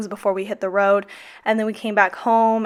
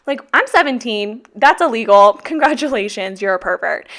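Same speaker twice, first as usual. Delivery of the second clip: retold yelling at a creep, louder; angry confrontation; 6 dB louder than usual. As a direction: snap back at the stranger filming you. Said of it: "So I got so pissed".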